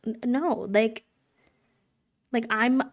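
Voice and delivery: mock panicked denial; frantic protest. Accused girl pleading her innocence.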